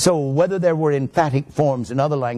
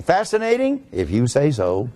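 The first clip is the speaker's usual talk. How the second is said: doubtful listener. Acted. Teacher voices the class's doubting brains, sceptical. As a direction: mimic an unconvinced student humouring the teacher. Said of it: "I can hear your brain saying".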